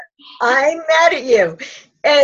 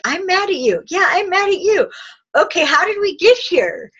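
light, raised voice trading lines; playful higher quotes; 6 semitones higher than usual. Shown as a demonstration. Partners admitting they're angry, playful higher voice. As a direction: act both partners, voice up high.

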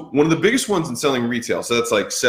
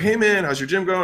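raised, breezy friend voice; friend's greeting; 8 semitones higher than usual. Retold or imitated. Old college friend hailing him at the airport, breezy. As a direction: lightly voice an old buddy saying hi.

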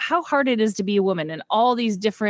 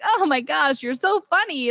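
patronizing Ken; 6 semitones higher than usual. Retold or imitated. Condescending Ken amused.

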